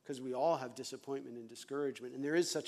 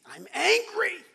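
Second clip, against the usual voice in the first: laughing admission; 10 dB louder, slower than usual. Retold or imitated. Finally admitting anger to counselor.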